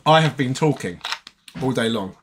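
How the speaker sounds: tired raspy voice; hoarse from talking all day. Real, not acted. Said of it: "so my voice is very raspy".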